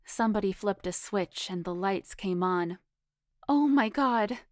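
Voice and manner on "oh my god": higher, louder alarmed cry; shocked exclamation. A narrator's reading. Foxy sees Frank holding a gun to Madoff's head, shocked. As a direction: gasp it out in alarm.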